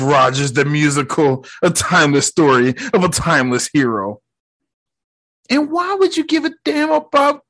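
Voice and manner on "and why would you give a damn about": mock questioning.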